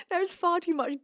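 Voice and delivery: real giggling repeat; laughing. Real, not acted. Teasing chat.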